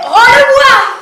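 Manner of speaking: loud high yell; shouted high demand; Virginie. Acted. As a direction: cry out the demand, high and forceful. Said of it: "Et Virginie criait".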